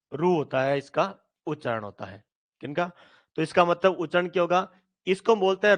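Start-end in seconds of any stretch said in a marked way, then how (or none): 0.1-0.3 ऋ said as "रू"; non-Hindi-region pronunciation. Shown as a demonstration. Teacher shows how non-Hindi regions say ऋ, pronounced "रू". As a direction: say "रू", with an oo vowel for ऋ. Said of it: "अहिंदी भाषी क्षेत्र में".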